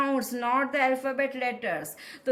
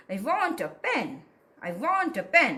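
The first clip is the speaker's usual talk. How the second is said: "want" and "pen" stressed, "a" light; slower than usual. Shown as a demonstration. Teacher pointing out stress marks, "want" and "pen" stressed. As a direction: punch "want" and "pen", slip quickly over "a". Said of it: "this is a stress mark".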